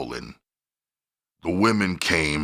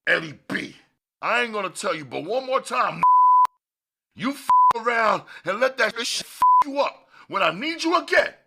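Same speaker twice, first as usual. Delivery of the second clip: much higher, rising furious threat. Acted. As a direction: threaten him with blazing anger. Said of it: "his eyes blazing".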